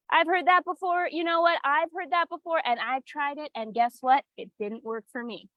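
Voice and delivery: breezy know-it-all client, imitated; a dismissive "heard it before" client; mock client voice. Coach mimics a client who has tried it all. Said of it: "be seen and say".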